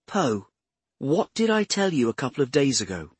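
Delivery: a hint of an eager explainer; earnest Bradshaw.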